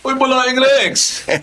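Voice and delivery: high, slow, bright hail back; in-law greeting his friend; cheerful greeting. Acted. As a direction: call back, pleased.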